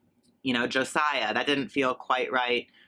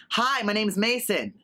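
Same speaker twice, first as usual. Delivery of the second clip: a slow, higher, friendly trying-out of the name; mirror self-introduction; 7 semitones higher than usual. Pretend. Practising a new name in the mirror, a mild bright introduction. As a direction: rehearse meeting someone in the mirror. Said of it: "pretend I'm introducing myself to someone".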